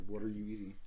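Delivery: talking with a mouth full of food; words pushed around a bite of food. Real, not acted. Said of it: "You're not supposed to talk with your mouth full".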